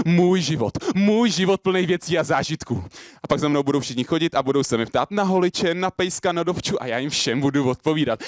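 driving poetic monologue for a crowd; slam poetry. Acted. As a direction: pile up the wants in eager, repeating phrases. Performs slam poem on stage.

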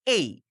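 এই gliding from এ into ই; correct AY sound. Shown as a demonstration. Teacher giving the rule for AY endings, gliding এই. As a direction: end এই on a short ই. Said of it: "সেখানে আমরা উচ্চারণ করব".

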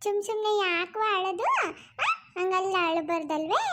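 put-on gently hushing a crying baby; soothing baby talk. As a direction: coax the little one out of crying.

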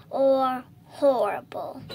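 slow whispered tease; whispered aside. Real, not acted. Child teasing viewers with a slow whisper. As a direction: whisper the word slowly as a joke.

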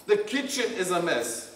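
calm, gentle, no blame; just state the problem calmly; gentle startup. Shown as a demonstration. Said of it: "gentle startup".

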